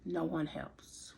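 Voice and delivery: "No one helps" breathed out slowly, barely voiced; hushed whisper. Real, not acted. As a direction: whisper it, slow and broken. Despairing confession after long pause.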